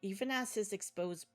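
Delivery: dark, measured horror narration; story narration. A narrator's reading. Narrator telling the player a horror scene. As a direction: read it like a grim thriller.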